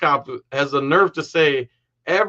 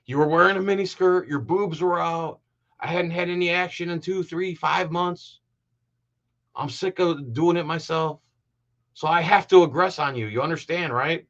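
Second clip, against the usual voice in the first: mock creepy aggressor; 3 semitones higher than usual. Commentator mocks the cop's excuse as a predator's, creepy mock reasoning. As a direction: drag it out like a creep justifying himself. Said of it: "my God, this is like".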